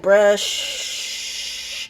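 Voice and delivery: hissed hush, urgent; whispered shush. Retold or imitated. Lucas stopping Marco incriminating himself, whispered shush. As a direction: shush him before he talks.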